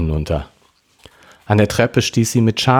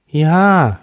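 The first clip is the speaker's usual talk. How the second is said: schluchzend; 9 semitones higher, 4 dB louder than usual. Acted. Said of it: "schluchzte sie".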